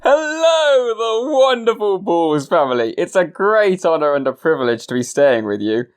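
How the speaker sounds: pompous flatterer. Acted. Author's grand flattering entrance.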